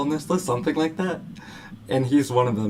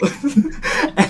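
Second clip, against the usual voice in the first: burst of laughter; 13 semitones higher, 5 dB louder than usual. Real, not acted. Laughing after his own scream.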